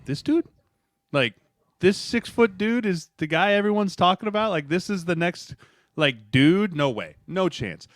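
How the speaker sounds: high incredulous scoff; can't believe this is the guy; mock shocked doubt; disbelief. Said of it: "standing next to him being like".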